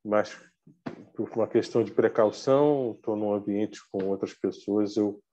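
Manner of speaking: muffled behind a face mask; through a face mask. Real, not acted. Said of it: "Peço licença para falar de máscara".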